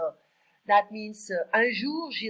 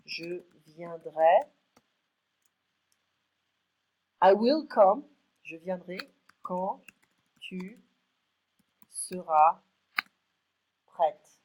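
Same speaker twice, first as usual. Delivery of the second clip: Je viendrai quand tu seras prête, slow, one word at a time with pauses; word by word dictation; 10 dB louder, slower than usual. Shown as a demonstration. Teacher dictating the sentence word by word to learners. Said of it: "Let me just write it down".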